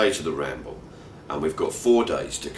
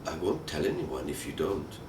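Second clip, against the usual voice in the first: nearly straight-faced; 3 semitones lower, 7 dB quieter than usual. Retold or imitated. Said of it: "a nearly straight-faced Eunice replies".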